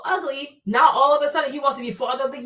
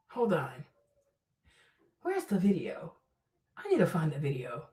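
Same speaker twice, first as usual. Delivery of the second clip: low, much softer mutter; muttering to self; 9 semitones lower, 10 dB quieter than usual. Real, not acted. Streamer quietly muttering while hunting for the video. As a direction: mumble it while searching.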